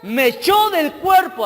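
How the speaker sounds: high, loud, drawn-out shout; acted furious demon's outcry; enraged demon. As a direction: shout it slowly in acted fury. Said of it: "así, con cólera".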